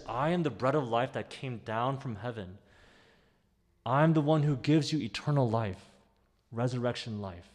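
loud, ringing proclamation of Jesus' words; proclaimed quote. Acted. Preacher booming Jesus' words to the congregation. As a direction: call it out to the congregation.

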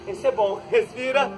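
normal talking voice

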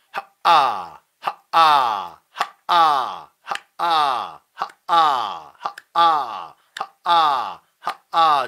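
loud short punched bursts of 하, 아; staccato. Shown as a demonstration. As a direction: hit each 하, 아 short and sharp. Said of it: "스타카토로".

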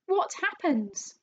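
high, drawn-out fearful question; slow wail of dread; gasping in alarm. A narrator's reading. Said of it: "gasped Missus Twit".

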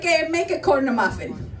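lightly voiced Italian mother giving orders; Italian-accented imitation of a mom; mother's Italian accent. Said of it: "For me, she's like".

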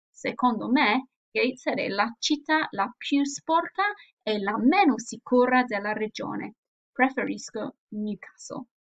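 reading both parts with lively Italian intonation; expressive dialogue reading. Shown as a demonstration. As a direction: act out the dialogue with clear expression. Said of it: "hear the pronunciation and also the intonation".

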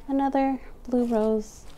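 breathy whispered aside. Real, not acted. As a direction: drop to a whisper, as if sharing a secret. Sudden whisper while listing flowers.

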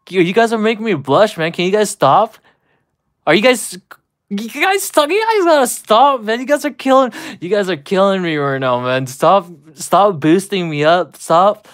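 giggly, embarrassed pleading; flustered laughing. Real, not acted. Flustered, laughing at chat compliments.

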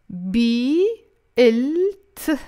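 spelling out B, L, T slowly; name each letter apart. Shown as a demonstration. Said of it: "But together, it becomes bit".

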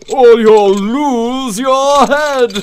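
threatening. Acted. King threatens the Hatter.

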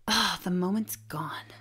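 whisper. Acted. Deflated whispered aside.

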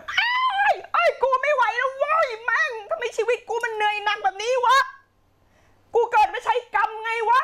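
high, strained acted scream of exhaustion; mock yelling in the car. Teacher acting a worn-out student screaming alone in the car, high mock yell. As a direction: shriek it out like you've hit your limit. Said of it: "เข้าไปในรถแล้วก็ตะโกน".

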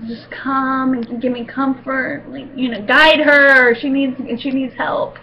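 tearful plea, breaking at the end; pleading prayer. Retold or imitated. Praying for the dentist, half-crying. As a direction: beg God for help, near tears. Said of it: "You're like".

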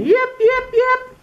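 very high, loud yips. Acted. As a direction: call out like a fox wanting in. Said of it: "Little Fox called again".

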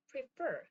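"prefer" with the stress on its last syllable; second syllable of "prefer" stressed. Shown as a demonstration. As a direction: say "prefer" leaning on the final "fer". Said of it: "뒤에 있습니다".

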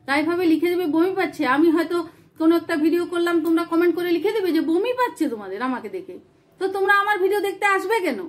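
mildly heated, insistent reproach; indignant scolding. Real, not acted. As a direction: take the commenters to task. Scolding commenters for cruel remarks.

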